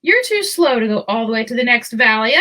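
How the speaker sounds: mocking laughter. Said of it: "the others started laughing at him".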